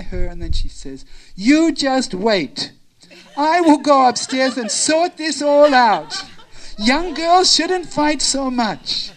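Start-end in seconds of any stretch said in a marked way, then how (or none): 1.3-9.1 stern elder. Acted. Elder vows to sort out quarrel.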